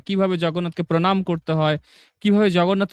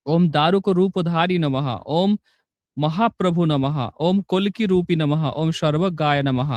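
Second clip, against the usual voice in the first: even, rhythmic chant of sacred names; steady mantra recitation. Acted. Teacher reciting Jagannath's hundred and eight names for devotees, steady chant. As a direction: recite each name like a devotional litany.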